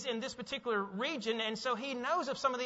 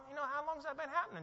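calm; 4 semitones higher, 7 dB quieter, faster than usual. Retold or imitated. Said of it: "and Jesus is all calm".

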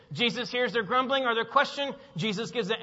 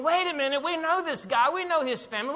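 higher-pitched disbelieving protest; incredulous objection; 6 semitones higher than usual. Acted. Sceptical crowd about Jesus, higher and incredulous. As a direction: object as one who knows the man's family. Voicing the grumbling, doubting crowd.

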